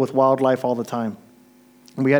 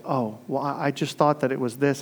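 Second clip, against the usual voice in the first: put-on sheepish girl; 2 semitones lower, 6 dB quieter than usual.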